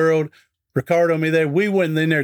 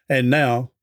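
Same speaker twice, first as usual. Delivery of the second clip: a light Paul Harvey impression, drawn out; dramatic slow broadcaster pause before the rest of the story; 2 semitones lower, slower than usual. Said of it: "here's where Paul Harvey would say".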